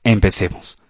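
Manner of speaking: ordinary delivery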